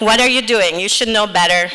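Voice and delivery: retold loud family reprimand; family scolding. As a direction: scold like a disapproving relative. Family scolding her choice.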